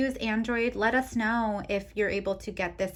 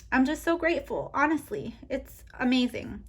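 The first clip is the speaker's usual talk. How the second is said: real emotion, pitch lifted; overwhelmed and thankful, voice rising; emotional gratitude; 5 semitones higher than usual. Real, not acted. Vlogger moved by reaching the Christmas savings goal, emotional and grateful. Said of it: "I'm getting really emotional right now".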